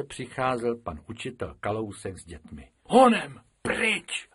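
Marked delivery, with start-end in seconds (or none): 2.8-4.3 high, loud and slow, startled; a frightened rabbit urging flight; frightened cry. Acted. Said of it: "lekl se Bobek". (vyděšeně, vysoko a nahlas)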